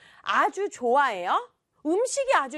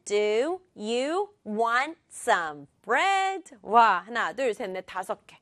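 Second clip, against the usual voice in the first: slow word-by-word reading with even stress; computer-like reading; much slower than usual. Shown as a demonstration. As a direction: read every word equally, like a computer. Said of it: "이렇게 읽으면 너무 컴퓨터 같아요".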